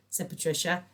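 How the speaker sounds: ordinary delivery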